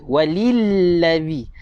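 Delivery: "Waliladzi" with a drawn-out double l; clear shaddah. Shown as a demonstration. Teacher tells students to make it clear, "Waliladzi" with held l. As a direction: dwell on the l in "Waliladzi". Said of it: "Jelaskan dia".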